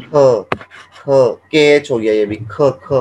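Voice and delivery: ख, breathy throaty kha; Chinese k as kha. Shown as a demonstration. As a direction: say ख with a strong aspirated k. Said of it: "के को करते हैं ख".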